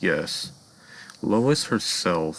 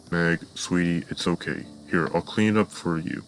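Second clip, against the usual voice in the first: calm voice. Acted. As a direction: reassure her kindly. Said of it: "in a very calm voice".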